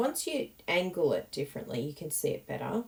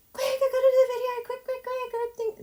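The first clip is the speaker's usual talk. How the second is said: much higher, louder, fast panicked voice; frantic rush; 9 dB louder, faster than usual. Retold or imitated. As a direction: hurry in a flustered panic. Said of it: "I was like".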